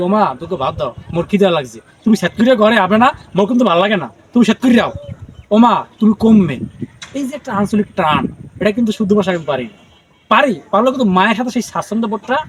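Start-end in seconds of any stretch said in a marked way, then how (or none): 0.1-6.6 louder, pleading Barisal dialect talk to mom; Barisal dialect to mother. Retold or imitated. Son showing how he asks his mother for rice, in loud Barisal dialect. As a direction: call to mother in broad Barisal speech, pressing. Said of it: "আমি সাধারণত মায়ের সাথে কথা বলি".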